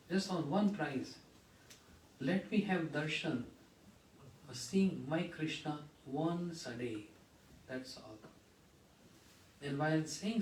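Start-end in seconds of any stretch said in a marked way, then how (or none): 0.1-8.2 choked pleading. Retold or imitated. The preacher retells Yashoda begging Devaki, slowing and fading. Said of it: "His voice got choked".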